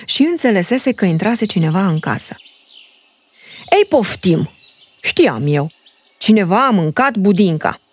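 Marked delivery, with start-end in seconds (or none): 3.7-7.8 mild mock outrage at the pudding; father bear grumbles at the intruder; father bear shouting. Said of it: "strigă el".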